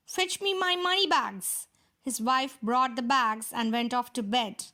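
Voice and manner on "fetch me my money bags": a lightly voiced giant, higher, barking an order; mock-roar the command like a greedy giant. Giant orders his wife, a mild hammed-up roar. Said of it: "the giant roared".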